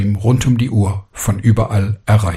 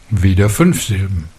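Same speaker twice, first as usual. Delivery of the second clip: usual speaking voice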